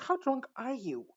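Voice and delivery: high, slow, incredulous mock voice; mock disbelief. Reacting to the drunk girl, slow and high. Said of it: "I'm like".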